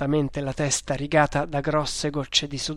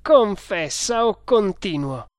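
raised, louder ultimatum; forceful, higher interrogator's order; threatening demand; 6 semitones higher, 5 dB louder than usual. A narrator's reading. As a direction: threaten the prisoner with more torture. Torturer threatens the screaming prisoner.

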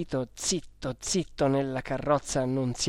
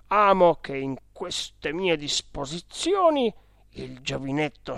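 stately official declamation of a legal document; formal will reading; 2 semitones higher, slower than usual. Acted. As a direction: read out a testament in solemn, measured phrases.

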